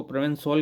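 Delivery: प्रोवेंसॉल closing on a rounded 'o' before the l; pronunciation demo. Shown as a demonstration. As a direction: say प्रोवेंसॉल with '-sol' at the end. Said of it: "के रूप में उच्चारण किया जाएगा". (प्रोवेंसॉल का 'सॉल' वाला उच्चारण)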